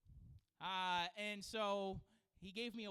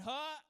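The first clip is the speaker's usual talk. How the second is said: mild grunt, held back; a gentle little huff; small grunt; 6 semitones higher, 6 dB louder than usual. Shown as a demonstration. The grunt he was expected to give, held back. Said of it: "instead of going".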